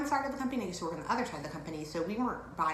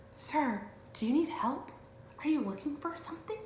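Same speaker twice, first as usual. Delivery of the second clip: store clerk; 6 semitones higher than usual. Retold or imitated. Store staff questioning him.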